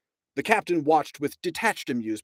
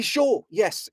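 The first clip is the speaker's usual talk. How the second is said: hurried interruption; 9 semitones higher than usual. A narrator's reading. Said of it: "interrupted Ford hurriedly".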